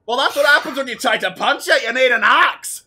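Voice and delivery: high, loud mountain man voice. Acted. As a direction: boast like a burly mountain man. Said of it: "says the mountain man".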